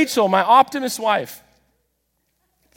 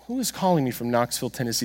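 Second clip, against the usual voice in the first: puzzled wondering; 6 semitones lower, 8 dB quieter, faster than usual. Retold or imitated. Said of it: "sitting here like".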